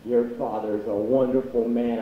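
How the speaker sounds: lightly voiced drunk woman. Drunk woman gushing about his father, lightly slurred. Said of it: "they're both drunk and like".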